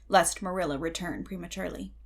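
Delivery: plain reading voice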